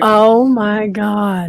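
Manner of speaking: long, drawn-out amazed reaction; real slow-motion astonishment; awed disbelief. Real, not acted. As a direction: stretch it out slowly, stunned. Amazed reaction to the ghost story.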